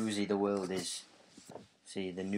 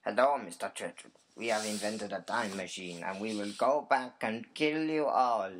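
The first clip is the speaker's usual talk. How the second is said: Adolf Hitler impression; 3 dB louder than usual. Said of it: "This is Adolf Hitler".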